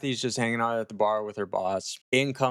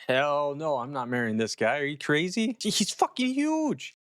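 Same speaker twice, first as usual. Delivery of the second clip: mock freak-out, ending way up high; 4 semitones higher than usual. Kathy balking at marrying this guy, freaking out. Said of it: "Kathy's freaking out".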